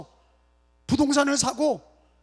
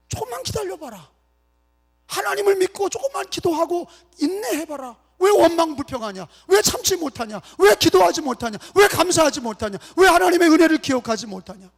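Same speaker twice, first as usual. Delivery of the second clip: raised voice, building into insistent rebuke; God's reproach; 4 semitones higher than usual. Acted. Preacher as God to grumbling Israel, reproachful. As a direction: scold them with question after question.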